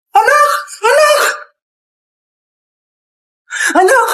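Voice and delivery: calling out. Acted. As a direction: call him from across the house. Mother calling for her son.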